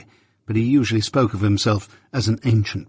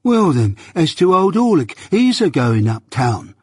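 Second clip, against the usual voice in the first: higher-pitched journeyman's comeback; defiant retort; 6 semitones higher, 3 dB louder than usual. Acted. Journeyman insisting to master he goes too, defiant retort. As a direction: retort stubbornly, starting high and settling. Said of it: "retorted that worthy".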